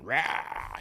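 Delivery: mock creature roar, held back in volume; soft drawn-out "rah" like a movie alien. Host telling friend his morning story, imitated alien roar.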